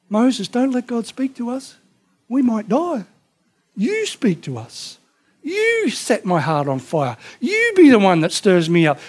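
pleading Israelites. Retold or imitated. People begging Moses to intercede.

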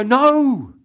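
loud, high protesting "No!"; mock shocked shout. Congregant objecting to God as servant, loud mock-shocked shout. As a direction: shout it like a scandalised listener. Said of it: "And you go".

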